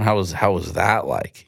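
slow question with weight on "that"; stress on THAT. Shown as a demonstration. Coach models a better follow-up question, stress on "that". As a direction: lean on the word "that". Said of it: "You just emphasize the word that".

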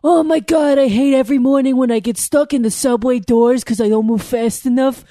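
lightly exaggerated Boston accent; mock Boston gripe. Commuter griping about getting stuck in subway doors, mock Boston whine. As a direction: grumble in a put-on Boston accent.

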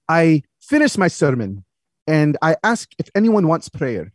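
measured, lightly voiced preacher dad; storytelling father. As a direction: tell it deliberately, with a hint of dad's accent.

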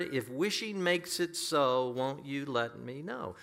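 measured, lifted reading of lyrics; preacher reciting heartfelt verse; verse recitation. Acted. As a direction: recite the lines like a poem, drawing out the key phrases. Recites song lyrics from the pulpit.

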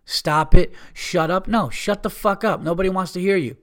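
indignant, high-pitched performed outburst; exasperated rant. Acted. Acted rant on what to say.

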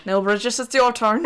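lightly done Irish accent, drifting toward Cork, laughing; a half-laughing stab at a Kildare accent; attempted Kildare accent. Shown as a demonstration. Asked for a Kildare accent, she drifts toward Cork. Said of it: "I think that was more Cork".

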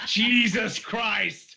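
loud, slow, laughing Jesus Christ; shocked laughing outburst; Jesus Christ drawn out through laughter; laughing exclamation. Real, not acted. Shocked at cheese sandwich joke.

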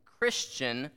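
Christian set apart and carefully stressed. Real, not acted. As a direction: lean deliberately on the word Christian. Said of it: "I am emphasizing".

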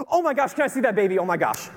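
excited stranger fawning over a newborn; gushing lady. Retold or imitated. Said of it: "she's, like, freaking out about this baby".

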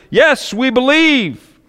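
high, slow mock cheer; frenzied crowd shout. Crowd whipped into a frenzy at Niagara, mock cheering. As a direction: play the excited crowd, drawn out. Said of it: "the crowd was whipped into a frenzy and shouted".

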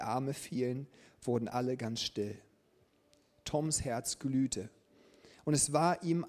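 lebhaft erzählte Geschichte; erzähl es wie eine Vorlesegeschichte; Geschichte vorlesen. A narrator's reading. Reads story to congregation. (erzählende Vorlesestimme)

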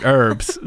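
herbs with a silent H; imitated American dropped-H herbs; American pronunciation. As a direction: say herbs as "erbs". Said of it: "Americans say herbs".

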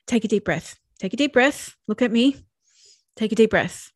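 imitating a calming adult. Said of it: "you're sitting there going".

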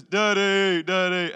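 mocking toddler. Toddler son mocking dad from his room, imitated taunt. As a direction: tease like a small child calling a parent. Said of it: "he's mocking me".

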